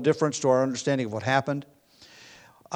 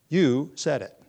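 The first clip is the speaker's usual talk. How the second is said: You set apart and stressed, then falling away; emphasis on YOU; slower than usual. Shown as a demonstration. Jesus answering Pilate's question, emphasis on You. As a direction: lean on You, let the rest drop. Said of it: "uses the same emphatic emphasis on the pronoun".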